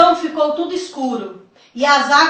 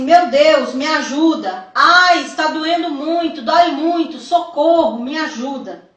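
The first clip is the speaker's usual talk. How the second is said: mildly raised, pleading cries for help; imitated desperate cries; 4 dB louder than usual. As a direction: act out victims crying out in pain, without full screaming. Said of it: "Pessoas gritavam assim".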